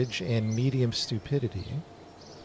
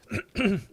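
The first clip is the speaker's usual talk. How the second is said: gagging retch into mic; dry heave, caught off guard; dry heaving; 8 semitones higher than usual. Real, not acted. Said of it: "gagging in the mic".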